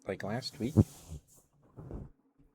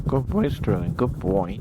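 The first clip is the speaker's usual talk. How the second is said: voice cracking; 13 dB louder than usual. Real, not acted. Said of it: "Sorry, voice cracked".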